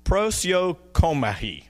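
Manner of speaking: "Prosiokomahi" sounded out slowly, syllable by syllable; attempted Greek pronunciation. Shown as a demonstration. Preacher trying a Greek word he expects to butcher, tentative pronunciation. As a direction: have a careful, unsure go at the Greek word "Prosiokomahi". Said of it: "I will butcher if I try".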